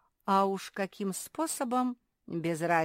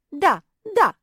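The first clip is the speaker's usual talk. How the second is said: eager yes; 11 semitones higher, 13 dB louder than usual. A narrator's reading. Naretta eager agreement.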